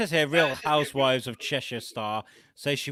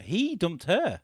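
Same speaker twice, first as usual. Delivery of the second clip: higher-pitched Liverpudlian twang; Cheshire accent; 5 semitones higher, slower than usual. Acted. Reading the reality star's ghost breakup, mock Cheshire accent. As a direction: lean into a loose Cheshire accent. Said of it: "I was gonna say a bit Liverpudlian".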